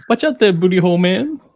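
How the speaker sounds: high, giggly callback; laughing quote. Retold or imitated. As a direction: tease with the quote while laughing. Quotes clip's line, laughing.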